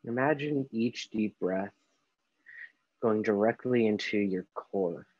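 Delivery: slow, unhurried meditation guide with long pauses; guided meditation. Acted. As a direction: ease them gently through each breath, leaving space between phrases. Leads a guided breathing meditation.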